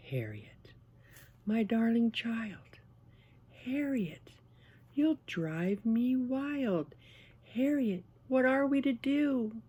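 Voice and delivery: high, theatrical motherly lament without yelling; restrained exasperation. A narrator's reading. Mother to Harriet over paint on the carpet, high exasperated lament. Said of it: "didn't like to yell".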